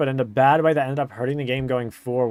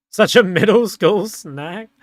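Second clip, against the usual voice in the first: laughing; 5 semitones higher, 6 dB louder than usual. Real, not acted. Laughing about raisins.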